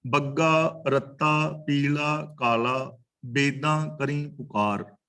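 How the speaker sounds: slow, measured verse reading; drawn-out sacred verse; scripture recitation. Real, not acted. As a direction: recite the line slowly, word by word.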